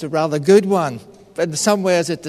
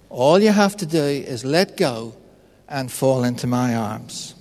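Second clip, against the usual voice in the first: voice of God, repeated; 6 semitones lower than usual. Retold or imitated. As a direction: repeat the invitation gently, as God, trailing off. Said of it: "the voice says to him".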